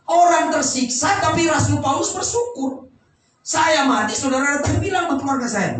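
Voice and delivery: high, emphatic sermon voice; preaching. Real, not acted. Preaches with raised voice. (khotbah bernada tinggi)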